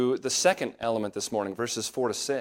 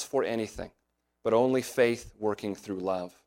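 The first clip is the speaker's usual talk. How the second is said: measured reading from Galatians; scripture reading. Acted. Pastor reading verses to his congregation, measured scripture reading. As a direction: read the verses out with weight.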